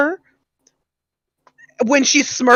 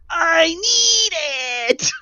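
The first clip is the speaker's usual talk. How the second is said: SpongeBob plea; 5 dB quieter, slower than usual. Retold or imitated. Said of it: "like SpongeBob in the episode".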